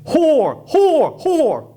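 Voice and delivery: high, loud jeering crowd shouts; crowd yelling insults. Retold or imitated. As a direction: hurl the insults like an angry mob. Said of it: "are shouting and yelling at her".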